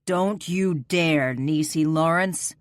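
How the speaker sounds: slow, stern warning; slow firm command, warning her; stern order. Acted. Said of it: "he ordered".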